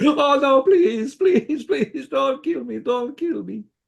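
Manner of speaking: very high-pitched, startled, shocked pleading. Game player voicing a character someone trips into, shocked. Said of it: "he's just shocked that you're there".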